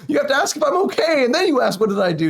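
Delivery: high-pitched whiny self-defense; retelling his own high-pitched complaint to his wife; mock indignant self. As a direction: whine it back in a high put-upon voice. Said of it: "And I was like".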